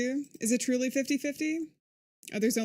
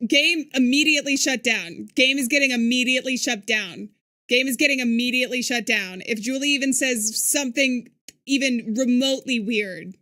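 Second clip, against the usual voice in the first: firm warning; 5 dB louder than usual. Real, not acted. Warning the game will end.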